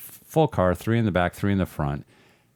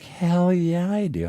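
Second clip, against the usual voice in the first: eager yes; 11 semitones higher, slower than usual. Retold or imitated. Eager answer to make-out offer.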